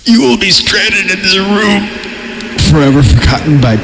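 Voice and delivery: high, airy spectral whisper fading into a voice; eerie ghost whisper. Acted. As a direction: hiss the threat like a ghost. Spooky climax of horror reading.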